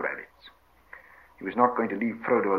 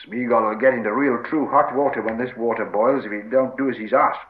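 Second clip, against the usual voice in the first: mildly raised, stern warning; growled threat; 5 dB louder than usual. Acted. Sam threatens disobedient Gollum, mildly growled warning. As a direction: threaten him with a touch of growl. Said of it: "growled Sam".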